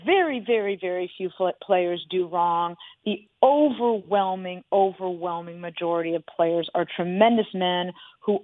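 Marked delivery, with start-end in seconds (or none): 0.1-2.8 firm emphatic claim, very very very few; stated boldly. Real, not acted. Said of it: "let me state it boldly".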